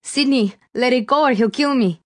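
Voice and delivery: high, pleading woman's voice; urgent plea. A narrator's reading. Melina pleading with Sydney at gunpoint, urgent plea. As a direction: beg as if your life hangs on it.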